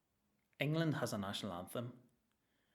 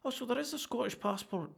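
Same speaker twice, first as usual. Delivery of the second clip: surprised; 13 semitones higher, 3 dB louder than usual. Real, not acted. Surprised discovery.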